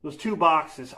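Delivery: winded after lifting; out of breath. Real, not acted. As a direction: speak between heavy breaths. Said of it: "I'm out of breath just from doing that".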